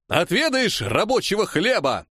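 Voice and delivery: high-pitched taunting call; shouting back. A narrator's reading. Striker challenging the Cossack commander, shouting. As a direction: taunt the commander across the crowd. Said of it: "выкрикнул я в ответ".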